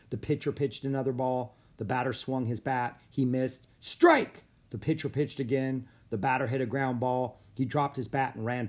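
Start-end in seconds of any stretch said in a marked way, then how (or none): 3.8-4.4 very high, loud shout; sudden ringing ballpark shout; umpire's call. A narrator's reading. Umpire calls a strike.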